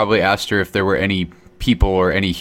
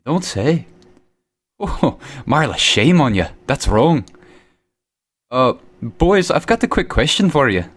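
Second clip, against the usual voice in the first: talking behind a hand; muffled, hand over mouth; 4 semitones higher than usual. Pretend. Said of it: "I'm gonna put my hand over my mouth".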